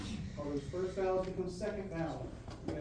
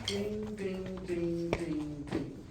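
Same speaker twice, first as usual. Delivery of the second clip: even, ringing ding, ding, ding; imitating the eighth notes; much slower than usual. Band director imitating what the student played, lightly sung dings. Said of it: "I think you played eighth notes".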